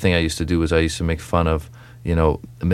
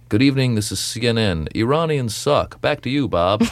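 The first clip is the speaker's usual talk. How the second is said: news anchor parody; 3 semitones higher than usual. Retold or imitated. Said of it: "this is how I see it".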